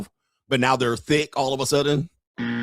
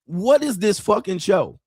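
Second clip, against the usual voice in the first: disbelief; 8 semitones higher, slower than usual. Retold or imitated. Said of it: "I'm like".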